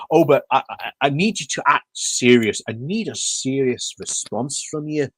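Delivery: a mock posh MP voice, only lightly put on; half-hearted impression of the pompous MP; terrible MP accent. Mocking the MP who demands a serious response, in a bad mock accent. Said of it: "that's a terrible accent I'm doing about this M P".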